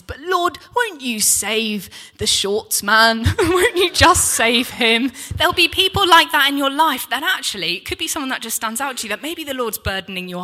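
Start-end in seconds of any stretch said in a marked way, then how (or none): 0.0-5.1 high, drawn-out mock plea to God; pleading prayer. Preacher begs the Lord for the shorts man, pleading. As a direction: plead slowly, rising louder on the repeat.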